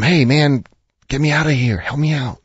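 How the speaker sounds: a trapped snake coaxing, mild and sly; viper voice. Acted. Trapped viper pleads with a passerby, lightly voiced sly snake. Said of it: "That's my viper voice".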